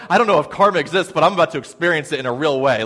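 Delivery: fast, mildly panicked retelling; panicking. Retold or imitated. Nervous passenger on a shuddering plane, mildly panicking. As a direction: rattle it off in mock worry. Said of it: "panicking right now".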